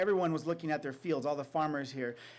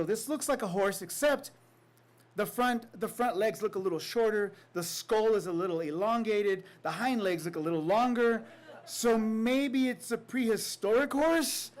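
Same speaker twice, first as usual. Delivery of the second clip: higher, rising wonder, slowing at the end; growing excitement; 5 semitones higher, 3 dB louder than usual. Retold or imitated. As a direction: build the amazement to the last line. Farmers marvel at the bones.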